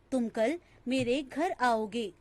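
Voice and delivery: "तुम कल मेरे घर आओगे" with a short break after कल and weight on घर; varied intonation. Shown as a demonstration. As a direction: pause after "तुम कल", then lean on घर and let आओगे fall. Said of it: "कभी-कभी एक ही वाक्य का उच्चारण जब भिन्न-भिन्न अनुतान".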